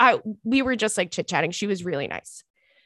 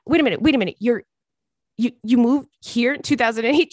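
flabbergasted; faster than usual. Retold or imitated. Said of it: "she was fucking flabbergasted".

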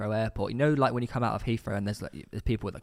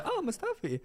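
mock German accent; 4 dB quieter than usual. Greeting Mustafi at Heathrow, hammed-up German accent. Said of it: "in a German accent".

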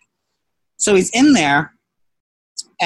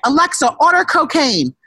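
put-on drunken screaming; 7 semitones higher than usual. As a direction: bellow orders like a drunk. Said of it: "I was screaming that night".

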